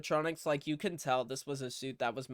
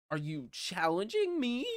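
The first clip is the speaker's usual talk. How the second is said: mock challenge; 5 semitones higher than usual. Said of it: "the classic Shaggy moment".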